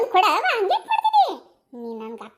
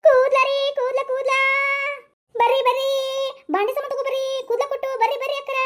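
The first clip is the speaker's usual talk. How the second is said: vendor call; 2 semitones higher, 4 dB louder than usual. Acted. Street vendor calling out.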